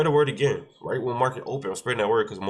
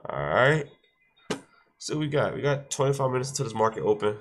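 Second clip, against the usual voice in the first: stuffy, congested voice; blocked nose; 2 semitones higher than usual. Real, not acted. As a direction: talk through a stuffy nose. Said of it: "I'm a little stuffy".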